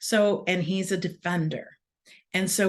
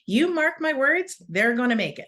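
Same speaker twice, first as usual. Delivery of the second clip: much higher, louder Scottish coach; Scottish coach pitched way up, insisting; 7 semitones higher, 4 dB louder than usual. Retold or imitated. Coach promising Worlds to the mom, high and loud in a Scottish accent. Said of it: "Scottish lady".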